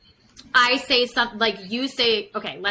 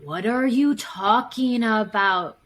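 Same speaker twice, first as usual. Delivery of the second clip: slow, put-on puzzled voice; gaslighting partner pretending nothing happened; feigned innocence; slower than usual. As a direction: play dumb, denying it happened. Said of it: "I literally look at you and I go".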